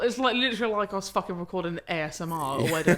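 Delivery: usual speaking voice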